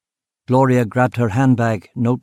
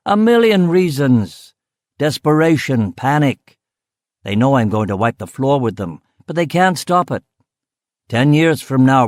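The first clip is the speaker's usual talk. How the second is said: higher-pitched, emphatic car boss; animated boasting; 4 semitones higher, 4 dB louder than usual. Acted. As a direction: pitch the grand plans with rising fervour.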